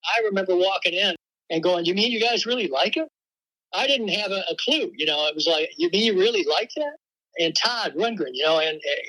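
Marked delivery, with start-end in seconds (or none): 1.9-3.1 slightly higher, incredulous question; retold disbelief. Retells his own disbelieving reaction. 5.8-7.0 higher-pitched incredulous question; retold disbelief. Retells his own disbelieving reaction.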